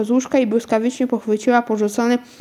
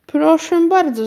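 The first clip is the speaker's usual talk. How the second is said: higher, drawn-out welcome; hospitable; 6 semitones higher, 4 dB louder than usual. A narrator's reading. Aunt invites the postman in for cakes, hospitable. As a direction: welcome the guest in, voice lifted. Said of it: "zaprasza gościnnie ciotka Agata".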